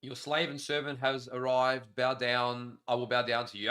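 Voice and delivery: slow, measured royal-servant address; mock-servile herald. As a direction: read it like a humble servant before a king. Reads out a mock-courtly message.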